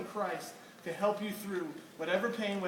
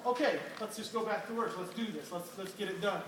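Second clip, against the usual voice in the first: calm dad. Retold or imitated. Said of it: "to this calm".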